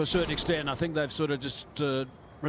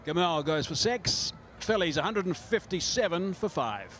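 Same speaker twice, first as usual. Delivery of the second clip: excited call; 4 semitones higher than usual. Real, not acted. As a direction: call the big hit. Calling a six.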